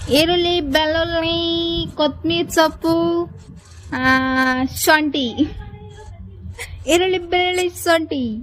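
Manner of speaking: calling out. Real, not acted. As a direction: call out each item loudly. Calling out a list of vegetables.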